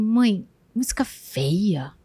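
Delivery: slow whisper of a small son; whispered child quote. Retold or imitated. Son tells mom the neighbor's music is ugly, slow whisper. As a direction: hush it like a secret kid remark. Son's remark retold.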